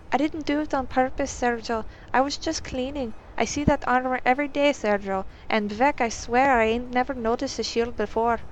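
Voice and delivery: lightly voiced maid protesting she meant no harm; flustered young servant. Maid protesting to Clivides that she never saw the shield, lightly flustered. Anara defends herself, flustered.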